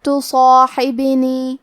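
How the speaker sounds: تصاحبنی slow, with a full, heavy ص and ا; heavy sad. Shown as a demonstration. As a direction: recite تصاحبنی with a thick ص. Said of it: "موٹی آواز میں پڑھنا ہے".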